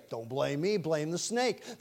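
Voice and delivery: soft, low disclaimer; mock innocence. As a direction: quietly hand the blame on. Eve acted dodging blame.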